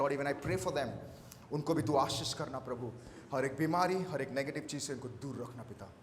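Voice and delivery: low, soft closing prayer. Real, not acted. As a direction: pray softly to the Lord over the congregation. (धीमी आवाज़ में प्रार्थना)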